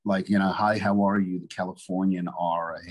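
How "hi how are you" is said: lightly demonstrated neutral Midwestern American; neutral Midwestern accent. Shown as a demonstration. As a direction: give a sample of neutral Californian-Midwestern vowels. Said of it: "do the neutral Midwestern".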